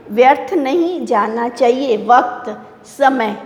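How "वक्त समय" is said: ordinary talk, nothing marked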